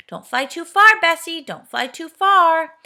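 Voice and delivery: high, loud call up to a flier; Fanny calling to Bessie overhead. A narrator's reading. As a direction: call up, slowing on the second. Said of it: "Fanny called out to her".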